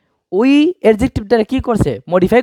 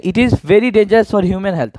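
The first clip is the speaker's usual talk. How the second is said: slow read; much slower than usual. Shown as a demonstration. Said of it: "তাহলে এখানে".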